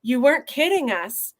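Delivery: usual speaking voice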